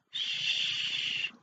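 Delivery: soft warning shush; hushing. Acted. Shushing the others to stay quiet. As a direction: hush them urgently.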